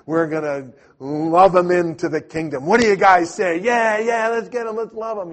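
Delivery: loud rallying coach firing up the team; coach's pep talk. Retold or imitated. Rallying friends on the couch before the visit, loud pep talk. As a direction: pump up the guys like a football coach. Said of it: "I felt like Knute Rockne".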